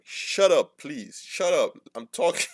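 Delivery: mock annoyed interruption; rude shut up. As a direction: snap at the interrupter. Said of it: "Shut up" is so aggressive".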